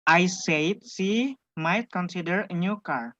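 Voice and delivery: "she" set apart by a slight pause; emphasize the word "she" and pause after it; stress on "she". Shown as a demonstration. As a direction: lean on "she", pause, then continue. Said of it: "Winda says she".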